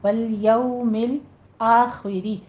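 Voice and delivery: slow والیوم with gently rounded lips on "yaw"; soft rounded glide. Shown as a demonstration. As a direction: model والیوم الآخری drawn out, soft glide. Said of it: "نرمی سے دونوں ہونٹوں کو ناتمام گول".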